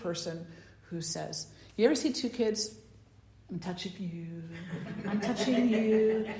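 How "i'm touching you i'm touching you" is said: put-on sing-song little kid teasing, laughing; teasing kid taunt.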